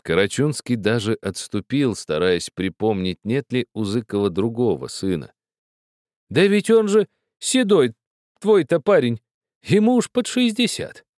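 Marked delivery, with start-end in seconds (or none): 6.3-11.0 high and loud incredulous cry; can't believe your ears; astonished. A narrator's reading. Host astonished at the request.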